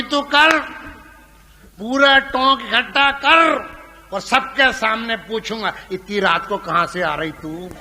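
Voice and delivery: husband calling his wife's bluff through the door; taunting husband. Retold or imitated. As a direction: dare her to gather the whole town.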